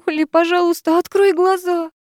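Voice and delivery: put-on high, frantic young woman; a panicked friend, rising; Sara in panic. A narrator's reading. Sara reporting the attack to the heroine, panicked and high. Sara's voice.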